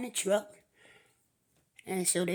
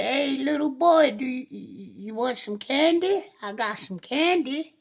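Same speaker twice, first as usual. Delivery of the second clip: luring stranger; 4 semitones higher, 5 dB louder than usual. Acted. Stranger lures boy with candy.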